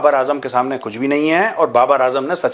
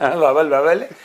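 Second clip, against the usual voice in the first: lisping; 3 semitones higher than usual. Pretend. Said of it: "तुतला तो बोलता है सचिन".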